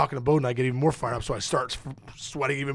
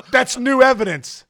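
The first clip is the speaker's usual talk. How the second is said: higher, loud and slow, laughing through it; hammed-up courtroom objection with a laugh; laughing mock protest; 8 semitones higher, 7 dB louder than usual. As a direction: protest like a lawyer while cracking up.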